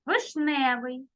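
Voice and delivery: «Вишневий» said slowly and clearly for writing down; slow dictation. Shown as a demonstration. Teacher dictating words to pupils, slow and clear. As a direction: read the word out slowly so pupils can write it. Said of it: "Зараз я вам прочитаю".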